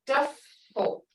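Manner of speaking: "duffel" with short uh and doubled f; short "uh" sound. Shown as a demonstration. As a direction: cut the vowel short in "duffel". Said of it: "hear that double sound".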